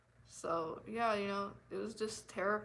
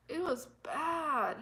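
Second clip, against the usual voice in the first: laugh-crying; 6 semitones higher, much slower than usual. Real, not acted.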